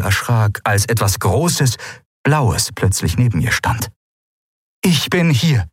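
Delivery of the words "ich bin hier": hohe, ruhige Fremdwesen-Stimme; Aylan verkündet. Acted. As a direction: gelassen verkünden. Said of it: "verkündete die Shayang". (Aylan verkündet ihre Ankunft)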